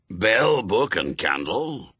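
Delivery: put-on brusque old witchfinder with a Scots burr; old Scots sergeant. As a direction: bark orders like a crusty sergeant. Shadwell checks kit.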